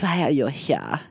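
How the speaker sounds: mock Germanic accent; German-sounding accent. Imitating a soldier questioning a prisoner, German-sounding accent. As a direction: ask it in a rough German-like accent. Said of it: "That sounds very German".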